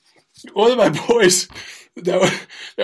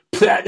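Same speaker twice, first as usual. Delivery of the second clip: mayo splat sound; 4 semitones higher than usual. Retold or imitated. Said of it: "this big spoon and just went".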